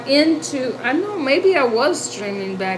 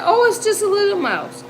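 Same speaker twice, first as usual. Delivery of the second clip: much higher, lightly mocking quote; dismissive neighbour; 8 semitones higher, faster than usual. Neighbour seeing the mouse in the tub, mock dismissive. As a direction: imitate someone making light of it.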